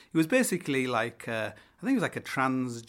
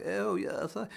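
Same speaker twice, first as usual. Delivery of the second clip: stammering pushy guest; 7 semitones higher than usual. Retold or imitated. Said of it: "They're all just wankers".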